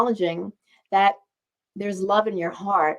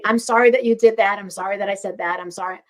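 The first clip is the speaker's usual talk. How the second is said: blaming apology; faster than usual. Shown as a demonstration. Showing the wrong way to apologise, pointed and blaming. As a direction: apologise while still pointing fingers. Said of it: "No, just".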